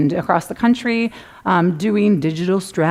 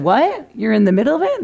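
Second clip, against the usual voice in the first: mock disbelief; 3 semitones higher than usual. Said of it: "And I said".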